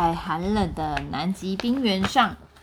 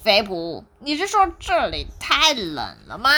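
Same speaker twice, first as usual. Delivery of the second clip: surprised; 3 dB louder than usual. Acted. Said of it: "皮皮听了非常惊讶".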